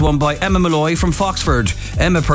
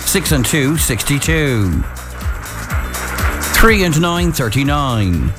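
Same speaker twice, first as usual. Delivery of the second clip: bingo caller. Acted. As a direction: call each number clearly for players. Calls the bingo numbers.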